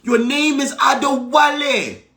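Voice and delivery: a father correcting his son's name; mock outraged dad shouting; Nigerian dad scolding. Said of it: "my dad was like".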